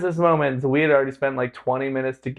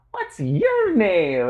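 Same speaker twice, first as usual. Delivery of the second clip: higher, drawn-out mock greeting; friendly stranger; 6 semitones higher, much slower than usual. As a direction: imitate her, stretching it out slowly. Retelling a gushing friendly stranger.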